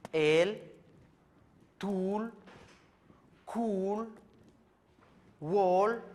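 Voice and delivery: "El, tul, kul, wol, tzit, chuy, wal" each held long and pitched high, loud; long vowel high tone. Shown as a demonstration. Teacher to students showing Maya long high-tone vowels, loud and drawn out. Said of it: "vocal larga con tono alto".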